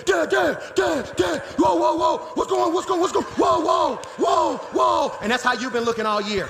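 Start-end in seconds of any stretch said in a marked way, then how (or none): 0.1-5.1 hammed-up, high-pitched repeated protests; protesting kids. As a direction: imitate boys clamouring at their dad in disbelief. Acts out sons protesting to dad.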